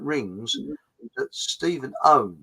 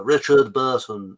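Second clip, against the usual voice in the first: slow, slightly louder actor's impression; attempted Richard Burton; 2 semitones lower, 5 dB louder, slower than usual. Host naming the actor in his voice, mock-theatrical. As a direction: draw the actor's name out grandly. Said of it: "No, sorry, that's a bit, uh, Alec Guinness".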